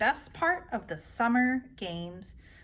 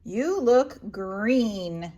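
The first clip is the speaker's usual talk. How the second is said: slow Nanny; 3 semitones lower, 3 dB louder, much slower than usual. Acted. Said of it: "Nanny says".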